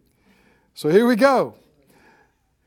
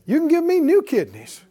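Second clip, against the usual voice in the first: raised, fervent preaching; preaching prayer; 8 semitones higher, 4 dB louder than usual. Acted. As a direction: proclaim it with rising fervour.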